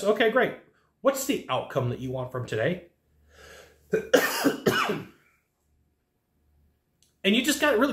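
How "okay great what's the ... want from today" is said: softer, lower, genuinely curious ask; friendly way of asking. Shown as a demonstration. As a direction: ask it like you really want to help. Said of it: "but it would be like this".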